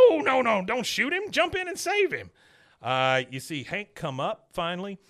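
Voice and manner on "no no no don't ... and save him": mock panic. Panicked old man retold.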